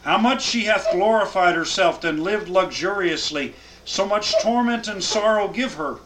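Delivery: solemn scripture reading to a class. Acted. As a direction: read the verses out with weight. Reads scripture aloud.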